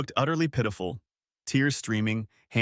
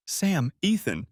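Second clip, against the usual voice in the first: slow, higher, thin and frightened; 6 semitones higher, slower than usual. A narrator's reading. Caught wife facing her husband and friend, thin-voiced. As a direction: manage the names weakly, drawn out. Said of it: "she managed in a thin voice".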